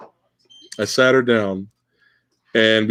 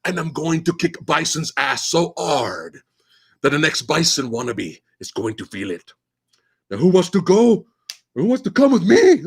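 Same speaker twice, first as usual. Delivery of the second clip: mock Van Damme speech; 3 semitones higher than usual. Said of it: "you get the Van Damme speech".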